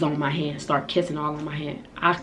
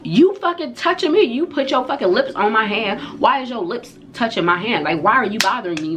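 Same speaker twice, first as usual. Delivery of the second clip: high, loud retort easing down as it goes; acted-out outrage, pitched up at the start; indignant yelling; 6 semitones higher, 3 dB louder than usual. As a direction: fire back in a retold shouting match. Yelling back in retold quarrel.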